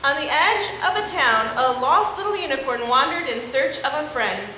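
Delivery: lively, expressive picture-book read-aloud; story reading for children. Acted. Teacher reading a unicorn book to her class, animated. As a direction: read it to the kids with wide swings in tone.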